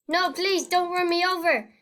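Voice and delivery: hammed-up begging, not really scared; mock pleading. Gamer begs the car in the game in mock panic.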